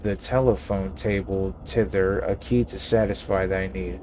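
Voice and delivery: lightly voiced old-fashioned innkeeper, stately; mock Shakespearean landlord; a hint of a pompous olde-English gentleman; archaic formal speech. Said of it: "When did you start talking like that?".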